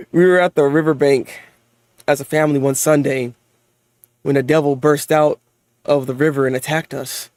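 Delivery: low, even storybook reading; story narration. A narrator's reading. Reading a manga memory aloud, low narration. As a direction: read it low and measured, like a recollection.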